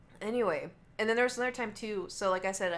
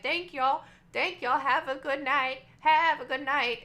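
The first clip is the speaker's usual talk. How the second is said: put-on higher, sing-song old-lady thanks; cheerful old lady; 6 semitones higher, 7 dB louder, slower than usual. Old wife saying goodbye to the staff, sing-song. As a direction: wave them off like a sweet old wife. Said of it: "old wife was laughing".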